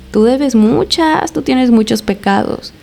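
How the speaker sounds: very slow, drawn-out taunt; imitated possessed taunt, slow and accusing. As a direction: stretch the key words, lifting the pitch at first. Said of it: "Y se empezó a reír".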